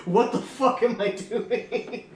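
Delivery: high, drawn-out dazed question; mock disbelief. New parent realising there is a child now, in mock disbelief.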